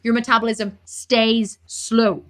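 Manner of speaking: real rant building from firm to high-pitched and fired up; heated tirade, key words stretched out, rising to a high pitch; impassioned rant. Real, not acted. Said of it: "let me have a one-minute rant".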